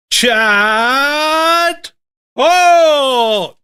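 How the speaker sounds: mock-grand announcer building to the guest's name; big hammed-up fight-night style intro; showbiz announcer introduction.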